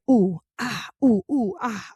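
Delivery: dance grunts. Pretend. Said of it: "dancing to music".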